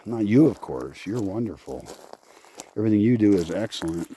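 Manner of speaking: dry mock flattery; sarcastic. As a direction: lay on fake praise. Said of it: "a little bit of sarcasm in that".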